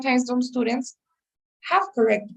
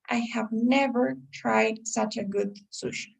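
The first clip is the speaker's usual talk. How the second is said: never pushed out a little, the rest slow and even; a slow demo sentence with a light stress on never; 4 dB quieter, slower than usual. Shown as a demonstration. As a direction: lean on the word never to sell the idea. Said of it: "you're stressing that word never".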